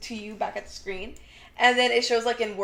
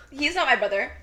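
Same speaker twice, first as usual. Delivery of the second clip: loud, high acted-out protest, building; dramatic retold shouting match; heated denial; 5 semitones higher, 11 dB louder than usual. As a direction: act out an outraged denial, louder with each repeat. Acted quarrel, denying family ties.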